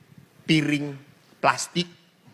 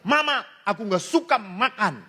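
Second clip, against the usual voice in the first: put-on child whining; 6 semitones higher than usual. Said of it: "Anak ini teriak".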